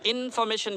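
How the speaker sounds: इन्फॉर्मेशन with a long stressed इन. Shown as a demonstration. Teacher shows a wrong version, first syllable इन stressed in इन्फॉर्मेशन. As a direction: stretch the opening इन of इन्फॉर्मेशन. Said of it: "पहले में stress करेंगे".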